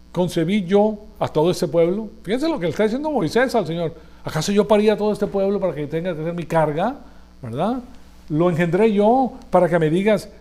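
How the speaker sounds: desperate leader arguing with God; Moses' exasperated complaint. Acted. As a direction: cry out in frustration at the burden. Moses complaining to God, read aloud.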